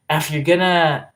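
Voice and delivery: "F" in place of "if" to open the sentence; London's vowel. Retold or imitated. Streamer quoting London starting a sentence with "F", accent imitation. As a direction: imitate her saying "if" as "F". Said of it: "She says".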